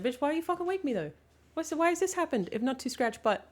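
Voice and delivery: a hint of a put-out pet; grumpy woken dog. Voicing the dog woken for nothing, mild indignant voice. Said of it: "Now he's like".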